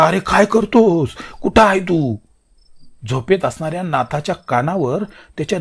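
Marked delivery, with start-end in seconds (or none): 0.0-2.2 loud, higher and slow urgent call. Acted. Hari calling for Natha, urgent loud call. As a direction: hurry him out of sleep. Brother calls from outside.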